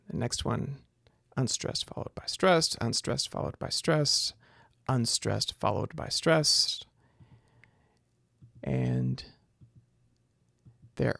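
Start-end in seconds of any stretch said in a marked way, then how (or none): 1.4-6.9 "unstressed followed by stressed" measured out, rising on "stressed"; iambic beat. Shown as a demonstration. Lecturer tapping out iambic feet, "stressed" lifted at each end. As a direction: count off each foot, lifting the end on "stressed". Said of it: "there's the next iambic foot".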